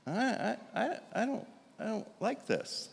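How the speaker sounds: a touch of wounded disbelief, almost to himself; dismayed inner voice. Retold or imitated. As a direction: stammer it out, uneasy and deflated. His dismayed inner voice again.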